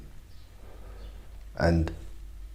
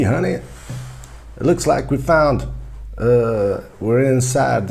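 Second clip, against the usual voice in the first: raised-pitch American tourist calling his wife honey; touristy husband. Acted. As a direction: play a wide-eyed tourist gawking at the city. Tourist couple exploring a city.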